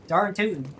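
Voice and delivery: casual country "Darn tootin'"; Southern accent. Pretend. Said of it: "do the Southern accent".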